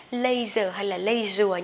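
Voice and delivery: LEISURE misread as "lay-zer" or "lay-zua"; AY vowel in LEISURE; wrong leisure. Shown as a demonstration. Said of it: "nhưng không được đọc là". (đọc sai LEISURE thành "lây-dơ, lây-dùa")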